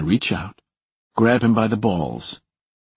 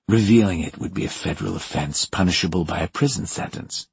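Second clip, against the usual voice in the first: gritted teeth. Acted. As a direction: speak through gritted teeth. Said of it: "through gritted teeth".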